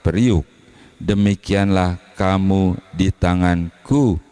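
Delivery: measured solemn Bible reading; scripture reading. Acted. Preacher reading Jeremiah to the congregation, solemn and measured. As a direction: read the verses with weight, slowing at the ends.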